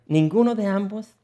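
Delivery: breaking into giggles mid-line; can't hold back the laugh; stifled giggles. Real, not acted. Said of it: "Estoy aguantando la risa".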